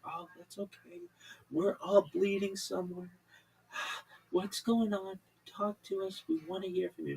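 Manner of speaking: lightly soothing reassurance; calm host. Retold or imitated. Radio host soothing the caller, lightly calm. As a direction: ease the caller down. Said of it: "Just the calmest way".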